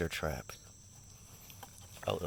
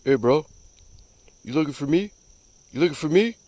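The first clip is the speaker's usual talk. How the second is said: voicing a critter; 6 semitones higher, faster than usual. Voicing the frog.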